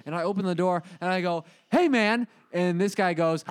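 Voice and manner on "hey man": angry confrontation. Retold or imitated. Confronting at door.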